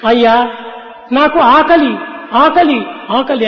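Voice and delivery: acted hungry son crying out, easing off. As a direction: cry out to a sir for food, without real sobs. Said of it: "అని రోదపట్టాడు".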